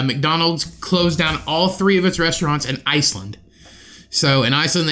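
normal talking voice

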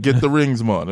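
light Jamaican accent, hammed up; half-hearted Jamaican accent on the rings line. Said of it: "I can't even do a good Jamaican accent".

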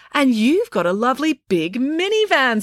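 high teasing gleeful voice. A narrator's reading. Loretta gleefully taunts the constable, high and teasing. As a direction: savour the accusation with glee. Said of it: "said Loretta gleefully".

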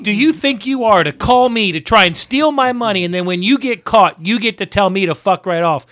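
outraged rhetorical rant; mock indignation. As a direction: tear into an imagined scammer. Indignant rant at the absent scammer.

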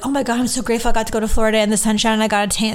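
fast, gushing mock enthusiasm. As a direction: rattle it off like an overexcited tourist. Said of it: "people are expecting you to go like".

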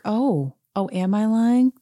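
imitated cool-as-a-cucumber challenge; cool mock innocence. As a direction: play unbothered, needling with questions. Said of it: "Sutton is cool as a cucumber".

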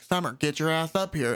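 lightly put-on country accent; a hint of rural country accent. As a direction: summon a child in a mild country accent. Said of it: "sound like they're from the country".

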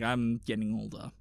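thirty-something grown-up voice. Acted. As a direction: lightly play a weary grown-up dog. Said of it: "thirty-eight-year-old going like".

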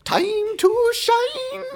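very high, drawn-out fake Asian accent; hammed-up, long high call in fake Asian accent. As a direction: stretch it out slowly in a high mock Asian accent. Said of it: "And he also goes".

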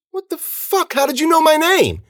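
very high-pitched startled demand; alarmed confusion. A narrator's reading. Confused friend hears stranger use his name, alarmed. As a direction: start small, then cry it out. Frightened man backs away confused.

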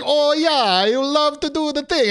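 high-pitched, loud bad Italian accent; cartoonish Italian accent. Host mimics own accent slipping, cartoonish Italian. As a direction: ham up a terrible Mario-like Italian. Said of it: "like, cartoonish Italian".

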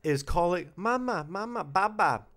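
high-pitched comic exasperation; exasperated. Acted. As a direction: rant in hammed-up disbelief, pitched well up. Exasperated rant about baby talk.

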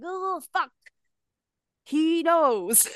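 high, startled mock panic; a jolt of retold alarm, way up; panicked surprise. Panics as phone rings.

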